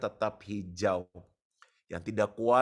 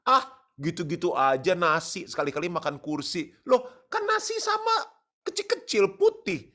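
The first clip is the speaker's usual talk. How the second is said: rising heated outburst, louder and higher; worked up; 6 semitones higher, 4 dB louder than usual. Real, not acted. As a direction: ramp up into a real exasperated rant. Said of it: "Sorry, agak emosi saya". (kesal meledak-ledak, suara naik dan keras)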